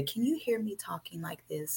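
unvoiced hushed whisper. Quoting her partner's quiet talk, whispered. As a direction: breathe it with no voice. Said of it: "making reference to".

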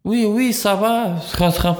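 high, slow mock French accent; playing at French class, high and slow. Friend joking about French class, mock French accent. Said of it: "Ah, francês".

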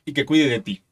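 slow, solemn reading of lyrics; dramatic lyric reading; poem recital. Acted. Reading trova lyrics aloud.

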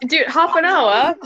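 laughing disbelief, slowed. Real, not acted.

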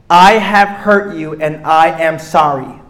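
slow and earnest; the one acceptable answer, slow and sincere; sincere apology. Shown as a demonstration. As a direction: own it plainly. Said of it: "That is it".

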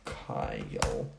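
a lightly imitated Vine line, trailing off; mock Vine quote. Quoting the Vine again for her friend, lightly imitated. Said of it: "Do you know that Vine?".

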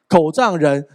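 “狗仗人”说到一半就断住，不说出最后的字; 像噎到一样把“狗仗人”戛然收住; 被噎断的成语. Shown as a demonstration. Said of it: "其实成语叫". (故意把“狗仗人”说成半截)

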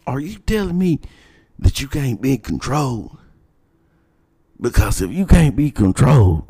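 high mock principal voice, prodding; imitating the principal. Principal baiting a student about control, high mock voice. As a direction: put on a high, needling authority voice. Principal quoted pressing the boy.

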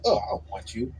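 soft, cold brush-off; cold dismissal. Retold or imitated. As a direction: dismiss him flatly. Quoting cold woman.

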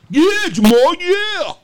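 sudden high yelp of joy; high excited squeal. Real, not acted. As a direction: squeal it out, thrilled.

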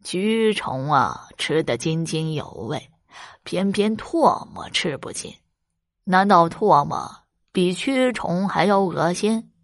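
put-on slow, sneering old beggar; a touch of cold contempt; scornful. Beggar scoffs at wife's disgust, slow sneer. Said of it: "冷哼一声说道".

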